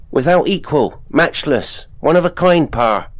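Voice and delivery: high, loud country lad; boy voice. Acted. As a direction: show off a fancy word, proud. Boy lists meanings.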